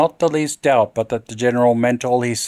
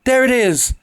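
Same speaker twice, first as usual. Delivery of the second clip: even higher piercing shriek; shriller cry; 12 semitones higher, 3 dB louder than usual. A narrator's reading. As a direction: scream it, as high as she can go. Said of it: "she uttered a shrill cry".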